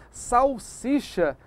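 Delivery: "salsicha" with S in the middle, SH only in the last syllable; slow, careful model pronunciation of "salsicha"; correct pronunciation. Shown as a demonstration. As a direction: say "salsicha" carefully as sal-SEE-sha. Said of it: "Eu devo dizer".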